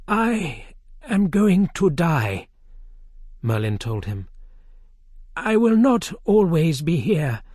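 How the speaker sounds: put-on a grave old Merlin taking leave; old wizard. A narrator's reading. Merlin telling King Arthur he will die, solemn.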